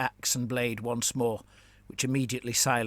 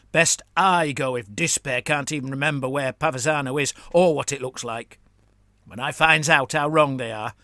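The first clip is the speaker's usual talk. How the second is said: louder goblin vow; defiant goblin; 6 dB louder than usual. Acted. Gurmlis vowing to Kernag, defiant goblin voice. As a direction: swear it with relish.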